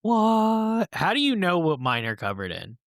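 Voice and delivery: mock indignation. Cohost challenged about his nuts, mock indignant. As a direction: act affronted at the presumption.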